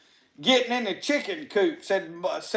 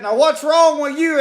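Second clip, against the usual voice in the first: patrolman's question; 7 semitones higher, 8 dB louder than usual. Retold or imitated. Patrolman turns to the injured driver.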